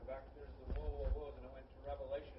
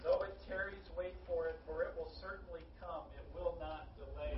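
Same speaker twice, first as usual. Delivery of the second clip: emphatic scripture quote. Shown as a demonstration. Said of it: "was it chapter two, verse three".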